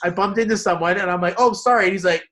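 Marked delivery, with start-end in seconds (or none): 1.4-1.9 high, loud retold apology; over-polite apology, hammed up; mock apologetic. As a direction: blurt a comic sorry. Retelling own apology to a stranger.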